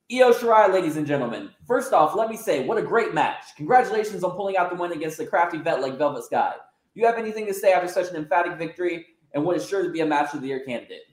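high, eager post-match hype; hyped-up backstage interviewer voice; excited interviewer. Acted. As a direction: gush over the great match.

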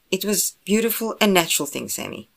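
teasing protest. Acted. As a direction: tease your brother with mock indignation. Teasing the disgusted brother.

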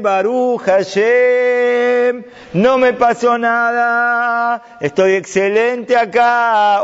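Daniel calling up from the lions' pit to the worried king, slow and high; cheerful Daniel. Acted. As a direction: answer the king slowly and high, all is well.

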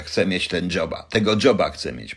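lightly mocked American accent; put-on American accent. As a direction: try a half-hearted American accent. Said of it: "Może jeszcze z amerykańskim akcentem powiem". (lekko udawany amerykański akcent)

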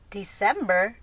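questioning, rising disbelief; mom's disbelieving query; incredulous echo. Retold or imitated. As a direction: echo it back as a startled question. Mom echoes the answer in disbelief.

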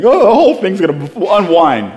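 hammed-up panic; freaking out. Preacher acting out his panic attack, mock freaking out. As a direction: fret in mock alarm. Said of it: "I'm freaking out about everything".

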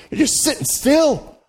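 laughing tease. Real, not acted. Laughing jab at still worshippers.

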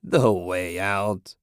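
put-on slow cackling old hag voice; cackling crone. A narrator's reading. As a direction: drag it out with a witchy cackle. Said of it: "she cackled".

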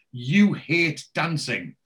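mock-sarcastic, slow and pointed. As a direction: imitate her sarcasm, stretching it out slowly. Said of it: "being a bit sarcastic".

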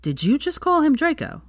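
high-pitched disbelief, jumping well up; astonished question. A narrator's reading. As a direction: ask it in high, startled disbelief.

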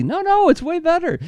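high, pushy ad pitchman; pushy salesman voice. Pretend. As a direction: needle them like a cheesy salesman. Mocking the old ad's pitch.

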